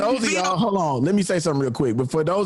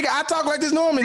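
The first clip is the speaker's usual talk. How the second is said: radio host voice; 9 semitones higher, much faster than usual. Real, not acted. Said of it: "You don't talk like that regular".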